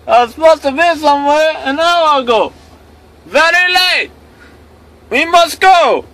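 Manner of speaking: loud, high-pitched mock Asian accent; hammed-up Asian accent impression, high and loud. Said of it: "the Asian guy's going".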